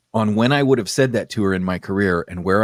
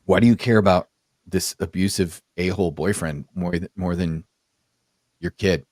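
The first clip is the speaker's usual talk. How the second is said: retold question, low and unhurried; measured pointed question; 4 semitones lower than usual. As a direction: ask it deliberately, with pauses, voice dropping. First asking of pointed question.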